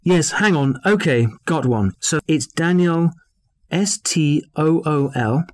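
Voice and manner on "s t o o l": slow spelling. Acted. Spelling a name for dictation.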